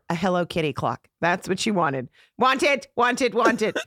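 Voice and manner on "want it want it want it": put-on raised, repetitive toddler demand. Daughter after a store clock, insistent toddler voice. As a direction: imitate a little girl insisting. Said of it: "she'd just go like this".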